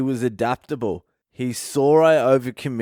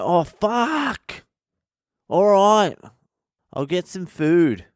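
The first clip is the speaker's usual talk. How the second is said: whiny beggar; 7 semitones higher, slower than usual. Retold or imitated. Homeless man grudgingly accepting food, high whine.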